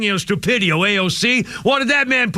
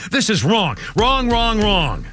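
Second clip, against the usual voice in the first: angry repetition; slower than usual. Real, not acted. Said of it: "this is ridiculous".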